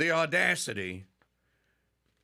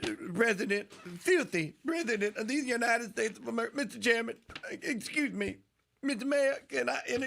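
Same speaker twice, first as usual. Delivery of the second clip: higher, lightly voiced parroting of the clip; a hint of the congresswoman's cadence; mock Maxine Waters; 6 semitones higher than usual. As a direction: echo her line in a hammed-up congresswoman voice. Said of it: "mimicking the clip just played".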